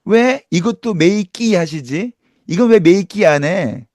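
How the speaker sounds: slow teasing singsong; mock them slowly and playfully. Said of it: "이러면서 막 놀리더라고요".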